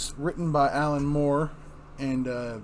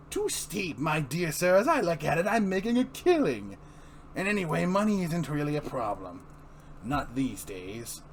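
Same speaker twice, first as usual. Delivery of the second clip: higher, purring; sly Joker; 4 semitones higher than usual. Acted. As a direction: relish the pun. Joker reply.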